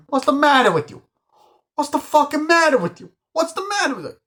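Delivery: screaming high and loud, over and over; hammed-up furious gangster screaming; furious shout. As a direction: explode at him with rage. Pesci keeps yelling at the guy.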